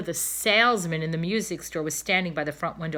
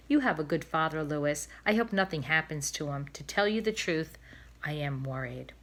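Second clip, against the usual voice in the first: worried mother; 2 semitones lower than usual. Acted. Wife worries to her son.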